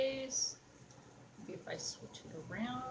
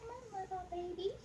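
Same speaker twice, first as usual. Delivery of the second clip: gentle coaxing; 10 semitones higher, 4 dB quieter than usual. Real, not acted. Crafter to the doll she works on, high coaxing. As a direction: coax it along in a high little voice.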